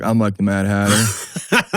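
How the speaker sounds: slow, drawn-out mocking poser voice. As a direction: ham up a self-important guy, slowly. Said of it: "every dude and his mom's like".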